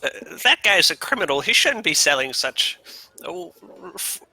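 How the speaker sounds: muttering character. Acted. Missile objecting to a criminal selling false items, muttered indignation. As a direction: grumble in character, slowing at the end. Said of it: "Missile mutters".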